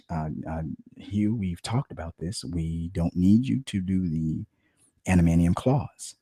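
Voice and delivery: quiet, slow, careful producer voice; timid producer. Retold or imitated. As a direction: tiptoe around the star actor. Producer gently corrects the actor.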